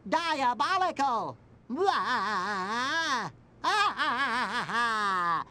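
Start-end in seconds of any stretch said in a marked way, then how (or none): 1.7-5.4 stagey villain "ah-ah-ah" laugh; mock evil laugh. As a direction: laugh like a make-believe villain.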